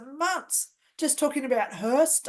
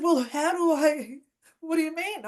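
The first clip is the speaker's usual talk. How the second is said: flustered; 2 semitones higher than usual. Retold or imitated. Flustered reply to angry woman.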